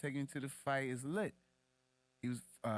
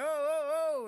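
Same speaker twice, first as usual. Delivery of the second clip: much higher and louder excited yelps; fight fan reacting; 8 dB louder, slower than usual. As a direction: flinch at every punch out loud. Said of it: "So you like".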